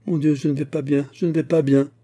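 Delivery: high-pitched, plaintive repetition; distressed lament.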